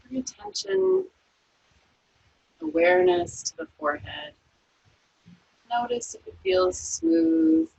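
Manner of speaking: calm, unhurried body-scan voice; guided meditation. Acted. Yoga teacher guiding students through a resting body scan, calm meditation voice.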